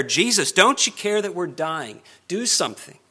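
urgent, reproachful plea with mild heat; accusing rebuke. Retold or imitated. Disciples to Jesus in the storm, mildly accusing. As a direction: press it home as an accusation. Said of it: "rebuke and even an accusation".

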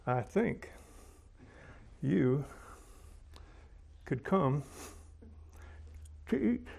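slow, each word set apart by long pauses; Marcia's way of talking. Retold or imitated. Friend Marcia inviting someone to eat, slow and spaced out. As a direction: spell it out word by word with long gaps. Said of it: "That's the way Marcia talks".

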